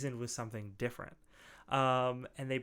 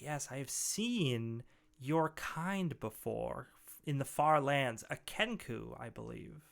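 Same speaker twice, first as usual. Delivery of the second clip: deep, gravelly ogre; slower than usual. Acted. Ogre recognising a Kenku from far lands, slow gravelly voice. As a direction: lightly play a huge ogre, unhurried. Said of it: "deep, gravelly voice".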